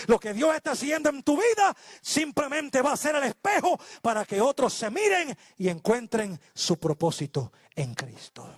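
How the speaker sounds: emphatic sermon exhortation, easing down at the end; full-force preaching. Acted. Preacher telling believers their life will be a mirror, emphatic preaching. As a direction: proclaim it to the congregation, then settle.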